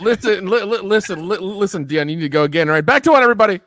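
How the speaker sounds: director calling out. Pretend. Playing a film director on set.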